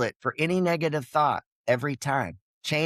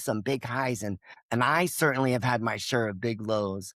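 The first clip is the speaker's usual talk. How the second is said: heartfelt message; 3 semitones lower than usual. Shown as a demonstration. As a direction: speak as if recording a thank-you to an old friend. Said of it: "So it goes something like, like this".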